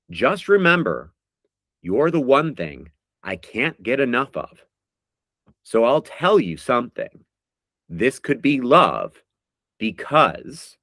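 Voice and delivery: slow, drawn-out recital of song lyrics; dramatic lyric reading. Acted. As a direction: read each line like a heartfelt poem. Reads lyrics as quiz clues.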